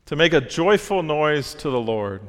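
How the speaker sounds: "joyful" punched for emphasis; exclamatory emphasis. Shown as a demonstration. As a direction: read it as an exclamation, leaning on "joyful". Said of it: "we're supposed to provide emphasis".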